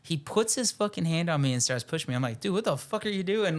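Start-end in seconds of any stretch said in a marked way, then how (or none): 2.4-3.6 higher-pitched mock indignation; retold irritation. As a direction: replay a mildly pissed-off challenge. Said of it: "starting to get pissed off".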